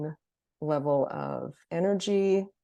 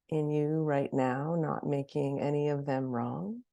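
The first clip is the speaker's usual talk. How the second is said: guided meditation. Acted. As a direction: gently lead them into noticing, leaving space between phrases.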